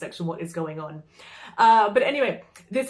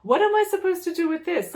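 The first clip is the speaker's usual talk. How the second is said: incredulous question; 10 semitones higher, 4 dB louder than usual. Retold or imitated. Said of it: "I'm like".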